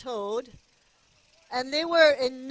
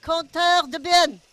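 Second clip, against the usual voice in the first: French accent; 6 dB louder than usual. Shown as a demonstration. Repeats the name in French.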